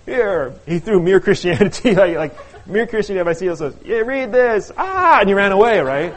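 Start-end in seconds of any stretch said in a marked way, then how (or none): 0.0-0.5 higher, louder, flustered brush-off; mock exasperated outburst. Scott fending off his grilling friend, mock exasperation. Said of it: "almost like a little hand grenade". 3.8-5.2 high, loud, frantic blurt ending in a yell; mock panicked outburst. Scott throwing a book at Matt before fleeing, mock panic. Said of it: "almost like a little hand grenade".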